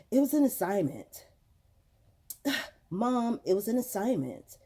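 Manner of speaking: imitating an exasperated kid, sighing; mock put-upon teen reply to mom; sigh, then answer with mild attitude; daughter's attitude. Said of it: "the stink face and the attitude".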